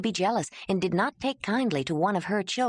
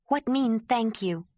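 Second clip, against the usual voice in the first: slow, halting broken speech, a touch raised; halting Ayla; 5 semitones higher than usual. Acted. Ayla kneeling, asking Jondalar to let her speak, halting. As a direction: carefully place each simple word.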